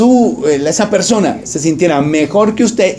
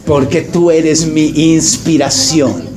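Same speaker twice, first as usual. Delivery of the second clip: mock suitor; slower than usual. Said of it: "Y dice, dice".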